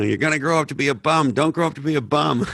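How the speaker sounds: mock-scold like a mother warning her son. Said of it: "voice of the devil ... my mother".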